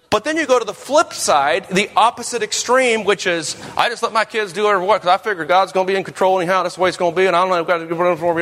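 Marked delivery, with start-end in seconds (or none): 3.8-8.4 put-on Southern accent. Preacher mimicking a lax Southern parent, quick light Southern accent. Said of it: "I don't know why I'm using a southern accent".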